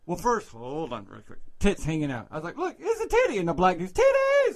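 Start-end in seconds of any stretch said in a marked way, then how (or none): 2.6-3.4 high-pitched excited call; retold yell. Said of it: "they're yelling". 3.9-4.5 very high, loud crowd holler; retold yelling. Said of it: "they're yelling".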